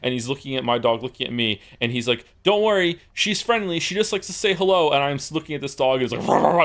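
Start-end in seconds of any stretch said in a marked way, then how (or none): 2.4-4.9 high-pitched imitation of a dog owner; mock reassuring owner. Pit bull's owner to him across the street, high mock reassurance. 6.3-6.6 loud, high burst of barks; imitated hostile barking. Showing the dog is not friendly, loud mock barking. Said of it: "this dog is not friendly".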